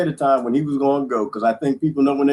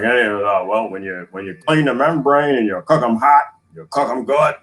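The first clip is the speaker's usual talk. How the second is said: lightly voiced older man, a touch lower; imitating father-in-law; 3 semitones lower than usual. Imitating his father-in-law explaining how to cook chitlins, lightly voiced. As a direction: do the father-in-law's easy way of talking. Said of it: "that's how he talk".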